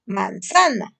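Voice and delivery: lightly segmented Manzana. Shown as a demonstration. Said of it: "De corrido".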